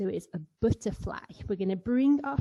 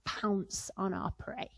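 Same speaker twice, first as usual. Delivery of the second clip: softer hushed whisper; 6 dB quieter than usual. Shown as a demonstration. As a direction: whisper like stalking prey. Pouncing tiger, hushed.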